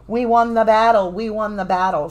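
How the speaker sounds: loud acted cry of triumph; mock victory cheer. Reader voicing winners after a battle, mock cheering. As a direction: call it out loud, then ease off. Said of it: "it can be like".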